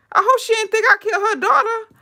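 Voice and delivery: high, laughing replay of her own panic; laughing retelling. Retold or imitated. Telling viewers her fear, laughing high. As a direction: giggle through the worried thought. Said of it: "I'm like".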